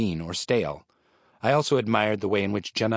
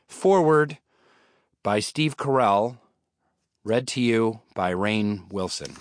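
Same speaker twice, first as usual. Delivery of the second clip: reluctant reading; 3 dB louder than usual. Acted. Grudging formal title read.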